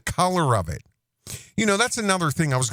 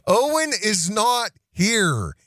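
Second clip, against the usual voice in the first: laughing repeat; 5 semitones higher, slower than usual. Acted.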